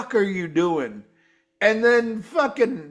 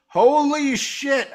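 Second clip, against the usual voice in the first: stunned surprise; 8 semitones higher, 3 dB louder, slower than usual. Real, not acted. Shocked by surprise guest.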